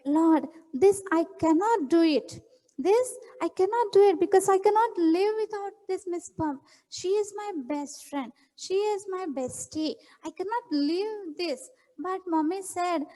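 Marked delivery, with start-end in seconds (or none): 0.1-11.7 tearful prayer. Acted. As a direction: pray like a sad child holding back tears. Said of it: "she started praying also".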